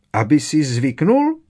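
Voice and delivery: high, loud indignant squeal; high-pitched angry echo; furious squeak. A narrator's reading. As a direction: squeak it back in outrage. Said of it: "zapištěla Winky zuřivě".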